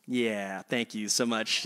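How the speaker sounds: low, soft meek thanks swallowing the correction; meek mumble. Retold or imitated. Barista hands back the drink, meek soft thanks. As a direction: mumble thanks, letting the wrong name slide.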